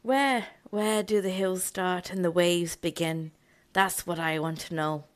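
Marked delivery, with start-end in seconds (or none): 0.0-3.3 put-on Irish accent. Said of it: "I do an Irish accent".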